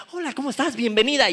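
eager, lightly hammed-up hello; effusive greeter. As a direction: act out greeting a favourite visitor. Acted friendly greeter, pretty visitor.

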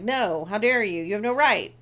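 loud, theatrical protest; mock indignation. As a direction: protest like a wronged lover, lightly hammed up. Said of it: "he's all mad about it".

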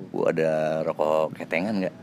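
slow, slightly shy question; sheepish asking. Retold or imitated. Embarrassed customer asks stall owner for single cigarettes, sheepish. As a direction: ask it a bit bashfully, unhurried. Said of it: "nanyanya sambil malu-malu juga".

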